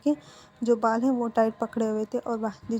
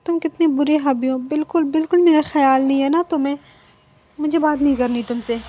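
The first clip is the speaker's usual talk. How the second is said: pouting; 4 semitones higher, 7 dB louder than usual. A narrator's reading. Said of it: "lips को pout करते हुए कहता है".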